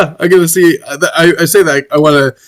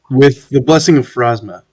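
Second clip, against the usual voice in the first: solemn healer character; 5 semitones lower than usual. Acted. Player speaks as character.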